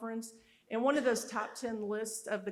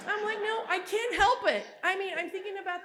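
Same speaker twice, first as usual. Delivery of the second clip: laughing; 9 semitones higher, 6 dB louder than usual. Retold or imitated. Her retold reply to husband.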